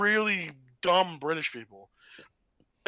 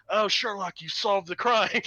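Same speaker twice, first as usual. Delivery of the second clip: lightly voiced British villain; a hint of acted villain, drawn out at the end; Mark Strong; 3 semitones higher than usual. Bad guy greeting Sherlock in his dream, lightly acted. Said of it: "Mark Strong would appear and be like".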